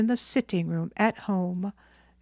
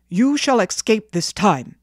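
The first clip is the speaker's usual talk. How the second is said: firm, louder fatherly warning; scolding with restrained anger; stern; 6 dB louder than usual. Acted. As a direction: lay down the law to your son. Father scolds his son.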